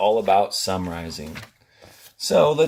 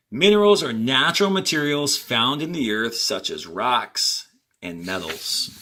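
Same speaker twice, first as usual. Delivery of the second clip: reading aloud to class; 2 semitones higher than usual. Acted. Teacher reading the passage to students, clear and measured. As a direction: read each sentence out for students.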